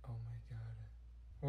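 slow, soft whispered shock; stunned whisper. Acted. Girl stunned by a weird noise in class, whispered. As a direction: barely breathe it.

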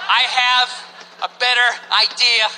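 slow, halting diplomacy; tactful hesitation. Acted. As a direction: pick each word carefully to avoid offence. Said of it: "just have to sit there going like".

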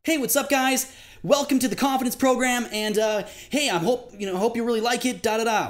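overly bright, high and keen to be liked; high-pitched rapport voice. Shown as a demonstration. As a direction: chirp it up high like a people-pleaser. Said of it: "that's in a high-pitched voice".

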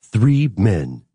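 light take on an epic trailer announcer; movie trailer voice. Pretend. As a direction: narrate it like a film trailer opener. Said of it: "Can you do it in a movie trailer voice?".

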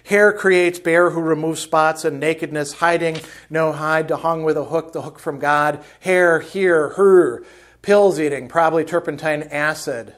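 loud, rambling word salad; babbling. Retold or imitated. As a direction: babble it out like a mind coming apart. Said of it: "you know, babbling".

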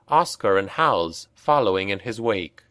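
usual speaking voice

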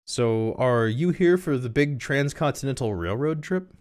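slow, high put-on questioning voice; high-voiced curious dialogue; high character voice. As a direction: pitch it up and draw the question out. Acted question in story dialogue.

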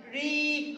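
long, held "ري" as "ree"; kasra sound. Shown as a demonstration. Teacher showing kindergartners the kasra sound, "ري" drawn out as "ree". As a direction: stretch the ee vowel in "ري". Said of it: "كسرت إيه؟".

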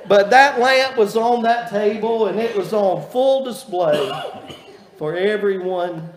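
talking through leftover laughter; laughing. Real, not acted. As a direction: let the laugh spill into the words. Still laughing after joke.

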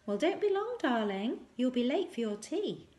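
high, loud motherly call; shouted. Acted. Mother shouts after her daughter on the rocks, high and loud. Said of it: "then shouted".

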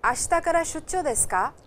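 two voices on a radio drill, loud and clear; recorded dialogue. Acted. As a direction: play the textbook dialogue like a recording.

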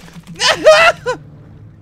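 shrieking laugh of relief and fear; high panicked laugh. Real, not acted. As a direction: laugh high and loud after the scare. Laughs after shark scare.

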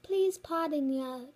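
lightly imitated teacher; Missus Lindy. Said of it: "She's like".

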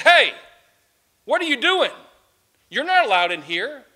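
a sharp, loud call that stops her in her tracks; gardener's shout. Acted. Gardener shouting at a woman who sneaked into the garden, loud.

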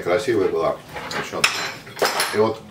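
talking between chews; slightly muffled by food; mouth full, chewing. Real, not acted. Seen 2: Bite at -2.0/-1.0; lips pressed, cheeks full at +0.6; wrap in hand.

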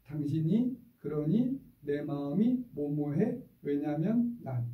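slow, measured formula aimed at husband; wife voicing anger in steady words; slow calm complaint. Shown as a demonstration. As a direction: tell the husband calmly how you feel. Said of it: "이렇게 바꿔서 시작".

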